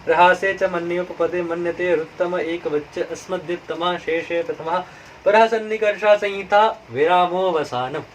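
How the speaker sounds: steady chanted Sanskrit recitation; sutra recitation. Acted. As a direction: intone the rules evenly like a pandit. Recites grammar sutras aloud.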